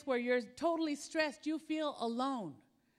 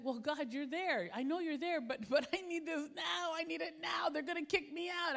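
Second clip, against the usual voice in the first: desperate pleading; 4 semitones higher than usual. Retold or imitated. Retelling her pleading with God.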